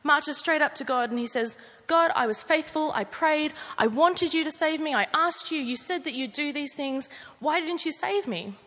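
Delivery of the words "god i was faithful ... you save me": indignant complaint. Acted. Dead man complaining to God.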